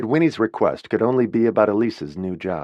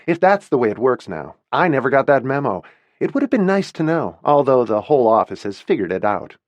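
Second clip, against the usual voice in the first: higher, louder, demanding answers; indignant confrontation; 4 semitones higher, 4 dB louder than usual. Acted. Winnie confronting her boss about the promotion, indignant and loud. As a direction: storm in and demand the truth.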